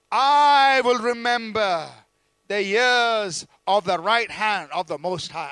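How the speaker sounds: slow, loud, drawn-out declaration; emphatic vow. Acted. Preacher proclaiming the psalmist's vow to the church, slow and loud. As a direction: plant each word like a vow.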